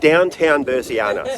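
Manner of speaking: slow, rising showman announcement; grand announcement. Pretend. Playfully announcing the town.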